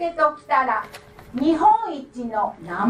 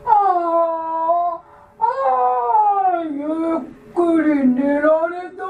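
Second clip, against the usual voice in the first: louder, stretched waking voice; yawning giant; 4 semitones higher, 3 dB louder than usual. Acted. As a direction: yawn the words out big. Big man wakes yawning.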